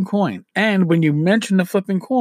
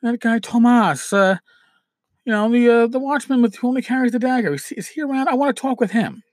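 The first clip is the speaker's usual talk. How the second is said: higher-pitched, casual player's query; curious player asking; 5 semitones higher than usual. Acted. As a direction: ask around for someone you half remember. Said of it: "and they'll go".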